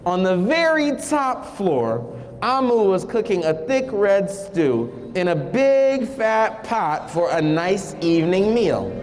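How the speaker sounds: slow, storybook read-aloud; unhurried picture-book narration; reading to children. Acted. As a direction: draw the kids into the story, slowly.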